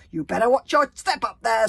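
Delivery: loud, furious scream up at the ceiling. A narrator's reading. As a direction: howl it up like a wolf. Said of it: "screamed Bear Cub's grandmother".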